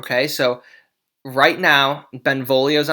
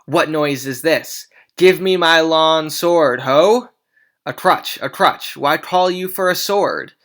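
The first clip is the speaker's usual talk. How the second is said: put-on blustering old Capulet; 3 semitones higher, 5 dB louder than usual. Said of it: "And he says".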